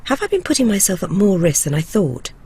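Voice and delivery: measured, close-up narrator read; documentary voice-over. A narrator's reading. Reporter telling viewers how the drug feels, documentary voice-over. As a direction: narrate your own experiment in deliberate phrases.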